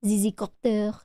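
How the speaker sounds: French-accented pronunciation of "Zizzycopter"; "Zizzycopter" with French vowels. Shown as a demonstration. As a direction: say "Zizzycopter" as a French speaker would. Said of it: "Any Frenchies in the chat".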